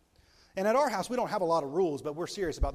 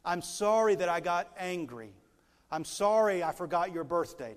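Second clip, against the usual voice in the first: model apology; 2 semitones higher, 5 dB louder than usual. Shown as a demonstration. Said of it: "So get in the practice".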